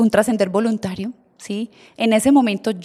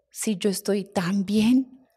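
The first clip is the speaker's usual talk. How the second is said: slow unvoiced whisper of the dead uncle; 4 dB quieter, much slower than usual. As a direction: breathe it out, slow and calm. El tío muerto susurra. (susurro lento y sereno del tío difunto)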